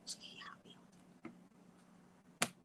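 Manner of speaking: whispered, prissy princess reply; mock the client as a pampered princess. Client quoted as a whispering princess. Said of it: "Like a princess over here".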